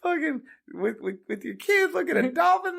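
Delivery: high, worked-up Kentucky caller caricature; David. Retold or imitated. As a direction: rant enviously in a high country voice. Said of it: "he's from Kentucky".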